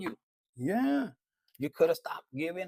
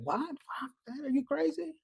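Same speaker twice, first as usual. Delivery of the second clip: higher-pitched, incredulous scolding; lightly voiced universe, pitched up in disbelief; indignant universe; 3 semitones higher than usual. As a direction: speak as the universe, taken aback. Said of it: "the universe is like".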